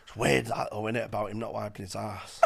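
casual, offhand remark; dead casual. Retold or imitated. Comic retells raising gossip about another act, dead casual. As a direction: drop it in lightly, dead casual. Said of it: "like, dead casual".

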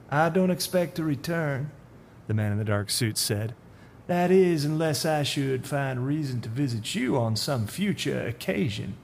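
veiled threat, lightly voiced; a hint of a menacing stranger. Voices the man in the dark suit.

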